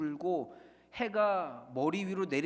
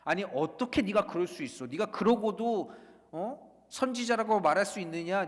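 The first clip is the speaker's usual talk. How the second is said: rebuking tone; 3 semitones higher, 4 dB louder than usual. Retold or imitated. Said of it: "하나님의 책망이 아니라".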